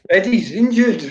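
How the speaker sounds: words breaking into a laugh as he says them; can't hold back a laugh at the punchline. Real, not acted. Telling a mate about injured keepers, through a real laugh.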